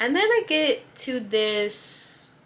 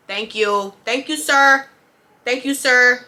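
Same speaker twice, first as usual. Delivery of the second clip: higher, louder sugary politeness; fake customer-service politeness; 4 semitones higher, 8 dB louder than usual. Cashier wanting the rude customer gone, forced sweet politeness. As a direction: smile through it, sweet but done.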